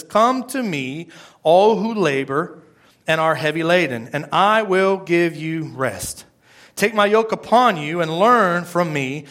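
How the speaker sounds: slow, measured Bible reading; deliberate preacher's recitation; scripture reading. A narrator's reading. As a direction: read the verse aloud slowly, word by weighty word. Reads scripture aloud to congregation.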